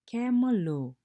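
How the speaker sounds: high, loud call, "Ke mo ga"; lively teacher calling to students; call-and-response teacher call. Shown as a demonstration. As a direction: call out the prompt to the class. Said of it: "you say, I say".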